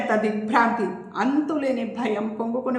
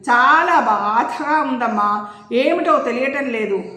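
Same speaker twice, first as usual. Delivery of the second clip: slow, pained and uneasy; a sick man struggling to get the words out; ailing father telling his daughter he feels awful, slow and pained; restless distress; 2 semitones higher, 4 dB louder than usual. Acted. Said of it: "ఆయన ఆరాటంగా అన్నారు".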